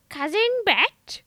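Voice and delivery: high, feeble dying call; a quavering deathbed call; frail dying woman. Retold or imitated. Dying woman calling her cousin, high and feeble. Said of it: "she's like".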